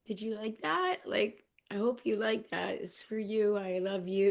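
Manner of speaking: tender talk to deities. Retold or imitated. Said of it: "and then I was like".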